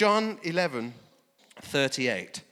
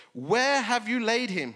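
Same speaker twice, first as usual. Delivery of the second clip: troubled question; 6 semitones higher, 4 dB louder, slower than usual. A narrator's reading. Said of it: "deeply moved in spirit and troubled".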